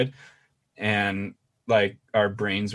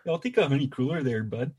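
mock Canadian accent. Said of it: "trying to do Canadian accents".

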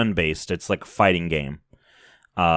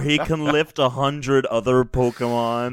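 swooning schoolgirl; 5 semitones higher than usual. Retold or imitated. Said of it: "a girl in middle school writing about her crush".

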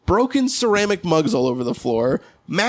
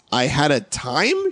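slow, lower, doubtful rising tone; unsure question; 4 semitones lower, slower than usual. Retold or imitated. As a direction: trail off unsure of the words. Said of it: "leaves and says".

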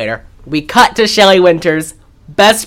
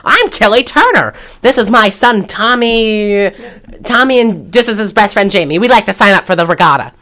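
raised, grand mock introduction; hammed-up proud mom voice; imitating the mother; 4 semitones higher than usual. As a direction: play a pushy mother signing kids up. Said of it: "Tilly Turner is her name".

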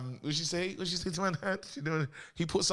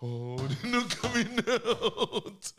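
laughing; 4 semitones higher, much slower than usual. Real, not acted. Slow, laughing, far timbre.

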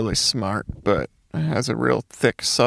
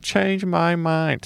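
mock smug; 4 semitones higher, much slower than usual. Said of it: "they're like".

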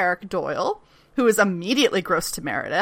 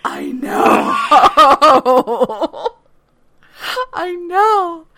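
excited agreement; 7 semitones higher, 6 dB louder, much slower than usual. Real, not acted. Agreeing excitedly amid laughter.

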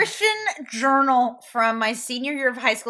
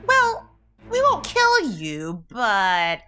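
slow drawl; much slower than usual. Acted. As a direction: drawl it out slowly. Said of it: "I shrug and be like".

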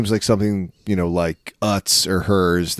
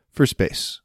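pointed whisper; 4 semitones higher than usual. Acted. Pointed aside about wife moving.

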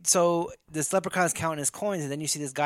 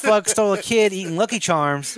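laughing; 5 semitones higher, 6 dB louder than usual. Real, not acted. Laughing through the retelling.

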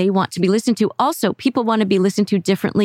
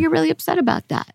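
validating tone; 7 semitones higher, faster than usual. Shown as a demonstration. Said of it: "Just acknowledge it".

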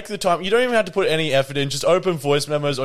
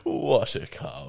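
bored; 6 dB quieter, slower than usual. Retold or imitated. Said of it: "She sounds so like".

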